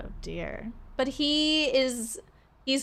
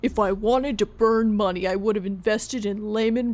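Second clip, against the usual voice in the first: stern father; 3 dB louder than usual. Acted. Stern father scolds his son.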